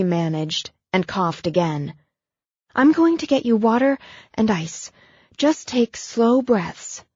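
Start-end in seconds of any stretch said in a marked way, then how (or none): 2.7-7.0 a touch higher, slowing to calm him; lightly voiced woman talking him down; Abigail's voice.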